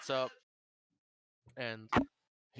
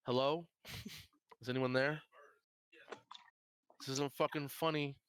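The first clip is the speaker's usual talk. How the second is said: put-on stereotypical scared horror girl; 4 semitones higher than usual. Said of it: "she does the stereotypical".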